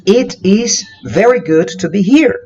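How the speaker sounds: slow careful model sentence; slow correct version. Shown as a demonstration. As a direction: say "It is very good to be here" slowly, every word clear. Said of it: "Mas o certo é".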